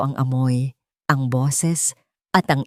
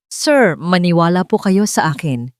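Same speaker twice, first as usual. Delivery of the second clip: voice breaking; 4 dB louder than usual. Acted. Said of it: "garalgal na ang boses".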